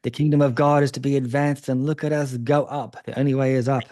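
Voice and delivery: quoting the church's hype with gentle irony; eager excitement. Retold or imitated. Interviewer voicing young believers' hype, mildly excited. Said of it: "I guess you had that excitement".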